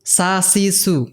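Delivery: "সা, সি, সু" with an unvoiced s as in sun; correct S sound. Shown as a demonstration. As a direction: say "সা, সি, সু" with a clean s, never a z. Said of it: "এরকম উচ্চারণ না". ("সা, সি, সু", সান-এর এসের মতো)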